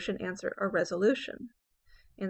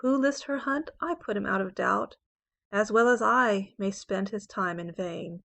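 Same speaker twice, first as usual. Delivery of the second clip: poem reading. Acted. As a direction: read the octave like a sonnet performance. Teacher reads the sestet.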